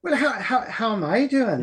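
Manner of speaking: lilting Irish brogue; Irish accent. Acted. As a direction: answer in a playful Irish accent. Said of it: "you have a great Irish accent".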